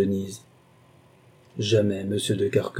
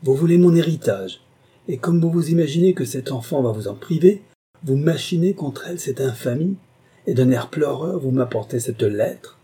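high, raised, indignant tirade; thundering voice; 7 semitones higher, 4 dB louder than usual. A narrator's reading. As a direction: denounce him in mounting outrage. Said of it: "s'écria-t-il d'une voix tonnante". (tirade indignée d'une voix tonnante)

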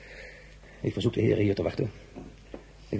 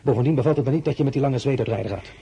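jealous reproach; 4 semitones higher, 5 dB louder than usual. Acted. Jealous emperor scolds her.

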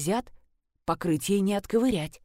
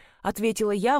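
plain reading voice

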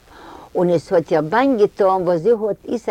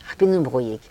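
plain reading voice

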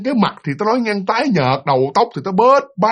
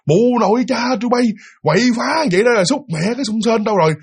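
mock angry cursing; 4 semitones higher than usual. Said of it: "bả đứng bả chửi đông đổng".

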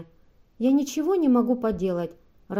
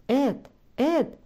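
calling out; 4 semitones higher than usual. A narrator's reading. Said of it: "позвала она".

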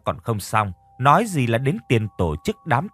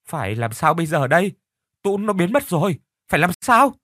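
rising higher, frantic questions; panicked questioning; 6 semitones higher than usual. Acted. Boy Lù asking friends what to do, panicked. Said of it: "hoảng sợ hỏi dồn".

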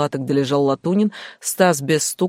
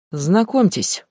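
through gritted teeth; 3 semitones higher, slower than usual. Acted. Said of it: "процедил Визгляков сквозь зубы".

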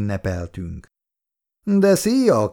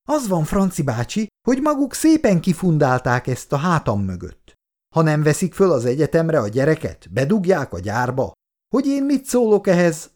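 all in one breath, higher and rushing; indignant outburst; 5 semitones higher than usual. Acted. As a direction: blurt it all out, offended and upset. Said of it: "egy szuszra elfújta". (sértett kitörés, egy szuszra)

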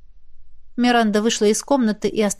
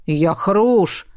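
a gruff male grumble; grumbled reply; 2 semitones lower than usual. A narrator's reading. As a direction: grumble it out, annoyed. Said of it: "буркнул мужской голос".

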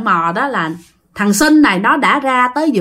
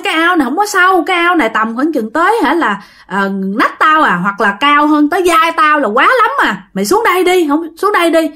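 1 coaxing friend; 5 semitones higher than usual. Acted. Sinh coaxing from the water.

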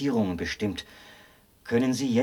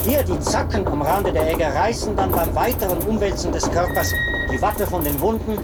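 loud and much higher, straining over the machine's noise; shouting over machinery; 8 semitones higher, 7 dB louder than usual. Acted. Officer proudly explains the running machine to the traveler, shouting over the noise. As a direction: shout every explanation over the roaring apparatus.

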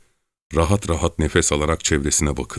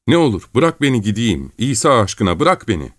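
high-pitched frightened pleading; whimpering, panicky plea; terrified, tearful begging; 6 semitones higher than usual. A narrator's reading. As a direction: beg desperately to be released. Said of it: "korkudan tir tir titreyerek yalvarmaya".

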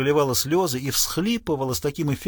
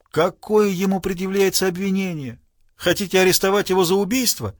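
higher-pitched, insistent questioning; raised, challenging questions; pressing demand; 5 semitones higher than usual. A narrator's reading. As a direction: press for a straight answer. Lawyer drops courtesy, demands the charge.

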